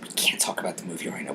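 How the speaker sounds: soft, fast unvoiced whisper; hurried whisper. Telling the nephew not to spoil, fast whisper. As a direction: whisper a warning so others can't hear.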